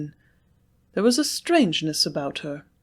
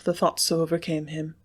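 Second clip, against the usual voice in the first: ordinary delivery, nothing marked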